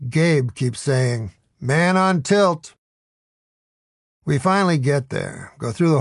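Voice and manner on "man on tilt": slow, higher, knowing mutter; a lightly voiced wry quip; Gabe's refrain. A narrator's reading.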